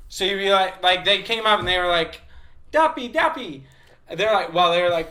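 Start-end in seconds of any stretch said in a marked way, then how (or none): 2.7-3.6 high, loud mimicked taunt; kids calling out. Little kids walking up to a white man, high calling out. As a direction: call it out like excited little kids.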